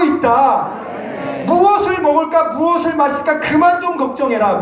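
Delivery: put-on a heavenly father telling his kids to stop worrying; God scolding his children.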